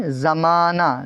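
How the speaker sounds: slow زمانہ ending in an open "naa"; silent final h. Shown as a demonstration. Teacher gives the correct reading, زمانہ with no final h. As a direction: leave the ہ of زمانہ unsounded. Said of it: "کیا کہتے ہیں؟".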